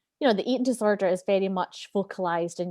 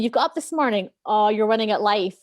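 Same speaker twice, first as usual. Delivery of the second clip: higher, louder gushing praise, breaking into laughter; over-the-top cheerleader; 6 semitones higher, 5 dB louder than usual. Retold or imitated. The cheerleader voice praising her morning, loud gushing cheer. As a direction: hype her up wildly, totally over the top. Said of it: "that is the voice that I've created".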